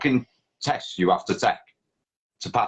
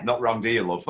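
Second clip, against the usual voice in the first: teasing shout; 3 semitones higher than usual. Real, not acted.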